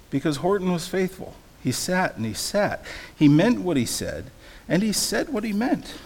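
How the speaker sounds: animated read-aloud with strong rhythmic stresses; storybook reading. A narrator's reading. Preacher reads Dr. Seuss to listeners, animated storytelling. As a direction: lean into the rhyme, punching key words. Reads picture book to congregation.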